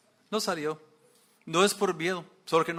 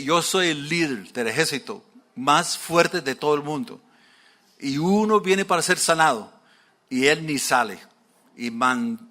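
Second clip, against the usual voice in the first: louder, proud indignant complaint; angry boast; 5 dB louder than usual. Retold or imitated. Naaman complaining about the dirty Jordan, angry and loud. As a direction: hammer home the insult. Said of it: "se enojó".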